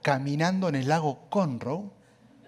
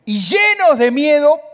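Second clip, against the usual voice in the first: panicked cry; 10 semitones higher, 11 dB louder than usual. Acted. Narrates disciples' panic.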